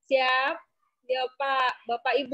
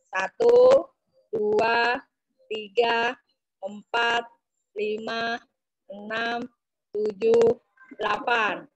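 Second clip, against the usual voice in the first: counting workout reps; 2 semitones lower, slower than usual. Real, not acted. Leading stretch count for group.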